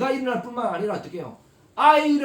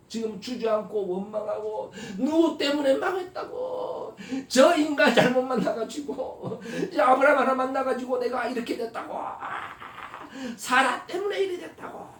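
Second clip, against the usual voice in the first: 1 mock complaining Hagar; 4 semitones higher than usual.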